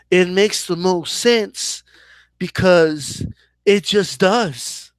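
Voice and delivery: slow, straight-faced promoter spiel; deadpan mimicking of a smooth promoter; Eddie Hearn voice. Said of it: "all I'll do is just say everything Eddie Hearn says".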